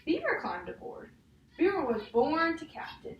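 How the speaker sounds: put-on reading a picture book aloud to a child; measured storybook read, each page leading to the next; story reading. Teacher reading a picture book to a child, storybook voice.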